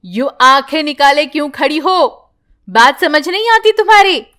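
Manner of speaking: put-on daughter-in-law scolding mother-in-law and girl. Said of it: "उल्टा सीधा सुनाकर".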